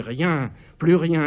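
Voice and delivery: slowed, drawn-out emphasis; slow emphatic. Acted. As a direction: let each word fall heavily. Caligula devant le miroir. (lent et appuyé)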